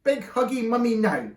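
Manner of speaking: put-on loud, high toddler wail; crying baby. A narrator's reading. Baby carried out, crying for mummy.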